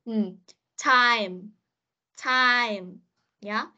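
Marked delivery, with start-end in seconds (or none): 0.8-2.9 Time closed on a clear m; final consonant demo. Shown as a demonstration. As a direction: model Time, sounding the m at the end. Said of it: "phía sau này âm M".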